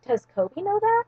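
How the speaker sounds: high-pitched retold challenge; mock incredulous. Retold suspicious challenge from the girl.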